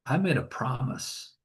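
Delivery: soft, understated emotion; hushed retelling with a touch of emotion; moved. Retold or imitated. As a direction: quote it softly, touched by it. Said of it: "I can't even talk about this".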